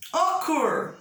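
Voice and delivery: "Occur" sounded out high, o-CUR; stress on last syllable. Shown as a demonstration. Teacher showing an oxytone verb, stress on last syllable. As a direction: split "Occur" in two, weight on CUR. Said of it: "a última sílaba dele é mais forte".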